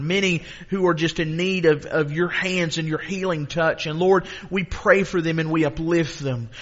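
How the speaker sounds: subdued, steady pastoral prayer; intercessory prayer. Real, not acted. Prayer settles after climax.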